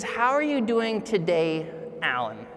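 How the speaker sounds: sincere, unhurried, leaning on today and the name; warm personal greeting. Shown as a demonstration. Speaker shows the warm check-in versus the robotic one. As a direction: greet him like you mean it, name last. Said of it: "That's different than the robotic".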